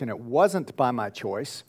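ordinary talk

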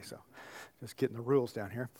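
fast, soft unvoiced whisper; whispered aside. Real, not acted. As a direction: toss it off under your breath. Quick whispered aside to audience.

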